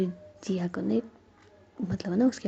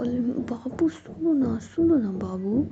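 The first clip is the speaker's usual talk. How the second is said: coaxing; 4 semitones higher, 4 dB louder, slower than usual. Acted. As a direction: gently coax her to listen, slowly. Coaxing a crying friend.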